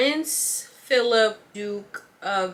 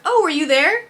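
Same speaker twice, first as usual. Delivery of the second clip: higher, louder playful jab; teasing joke; 8 semitones higher, 8 dB louder than usual. Retold or imitated. Cashier joking with the old customer, a loud teasing jab. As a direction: tease him like an old friend. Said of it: "Like, just joking".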